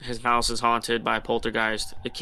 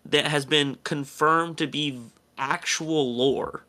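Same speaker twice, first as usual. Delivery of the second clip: incredulous outrage; 3 semitones higher than usual. Retold or imitated. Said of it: "I'm like".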